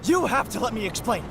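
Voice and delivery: quick, pleading rush; urgent plea. Acted. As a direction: hurry it out before they walk off. Urgent plea after being caught.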